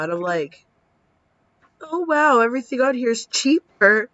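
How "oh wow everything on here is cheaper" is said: delighted surprise. Retold or imitated. Reading a cheap menu, delighted.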